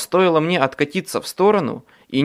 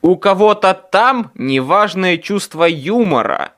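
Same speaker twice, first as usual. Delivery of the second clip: loud, higher, fuming at the sky; fierce outburst; 6 semitones higher, 6 dB louder than usual. A narrator's reading. Harry glaring up at the sky, fierce loud outburst. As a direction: snap it out in fury at heaven. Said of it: "Я свирепо покосился наверх".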